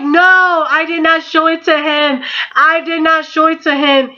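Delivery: high, rushed denial, repeating it; denying to Zach in a high panic; panicked denial. Retold or imitated. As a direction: deny it fast and high, caught out.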